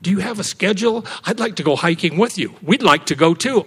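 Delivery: lightly acted enthusiasm; eager people. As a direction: imitate keen people asking to join. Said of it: "what a lot of people used to say".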